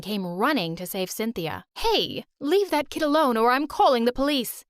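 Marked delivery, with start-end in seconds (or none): 1.8-4.6 stern warning. Acted. Sally stops Bella hurting child.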